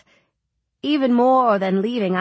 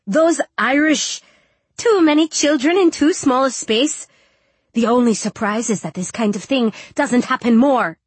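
louder, higher, indignant rant; angry hiss; 3 semitones higher, 5 dB louder than usual. A narrator's reading. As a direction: spit out the complaint with scorn. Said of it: "she hissed".

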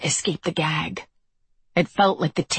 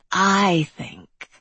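slick wet voice; 2 semitones higher than usual. Acted. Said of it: "in his slick, wet voice".

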